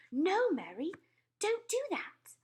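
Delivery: high, loud sharp stop; sharp command. A narrator's reading. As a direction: cut the maid off sharply. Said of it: "The Queen spoke so sharply".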